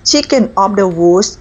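slow "chicken of the woods", the S of "woods" sounded; careful final S. Shown as a demonstration. Correcting her habit of dropping S, careful final S. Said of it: "ต้องมีเสียง S ด้วยนะคะ".

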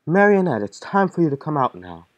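loud call. Acted. Voicing game character summons.

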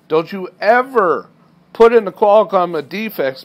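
mock angry yell at a trainee; retold yelling. Dispatcher chewing out the trainee, angry yell. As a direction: bark it like a furious dispatcher. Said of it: "he yells at me in front of everybody".

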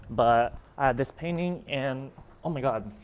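winded, pausing for air; out of breath. Real, not acted. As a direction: talk while catching your breath. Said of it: "I'm out of breath".

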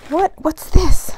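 loud, high gasp of surprise; surprised. Real, not acted. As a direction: blurt it out in sudden delight. Surprise gift found.

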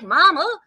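"Mama" high and loud, rising at the end; extra syllables. Retold or imitated. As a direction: imitate a child's Southern "Mama". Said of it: "he has these extra syllables".

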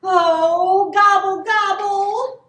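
loud, high gobbling cry; worried turkey. A narrator's reading. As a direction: gobble out in rising alarm. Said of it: "Turkey worried".

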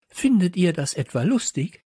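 high-pitched, affronted question; indignant scolding. Acted. Teacher scolding pupils over the parrot, high indignation. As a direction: ask it in rising outrage.

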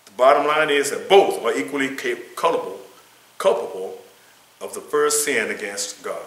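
emphatic lesson-text reading; reading aloud. Acted. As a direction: read the text out firmly to a class.

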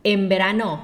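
"En verano" run together as "em-berano"; automatic m sound. Shown as a demonstration. Teacher showing the change is automatic, n as m. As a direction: slide straight into m-b in "En verano". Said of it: "มันแทบจะอัตโนมัติอะ".

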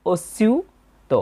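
"অস্যুত" very slowly, middle vowel held long; drawn-out model pronunciation. Shown as a demonstration. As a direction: stretch the "স্যু" in "অস্যুত". Teacher models the verse word.

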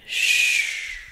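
a soft whispered shush; hushing whisper. Acted. Spider captor hushing her crying human, whispered. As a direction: hush them gently.

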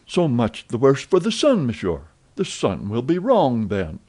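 proud defiance of the sun; defiant. Acted. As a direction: dig in your heels. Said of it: "defiant gesture".

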